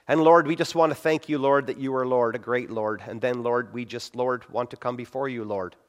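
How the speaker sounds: mock-pious prayer, "Lord" dropped in after every phrase; a hammed-up preacher's prayer, "Lord" as punctuation; pious filler prayer. Shown as a demonstration. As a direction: parody the over-churchy prayer voice, leaning on each "Lord". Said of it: "We know how unnatural this sounds like".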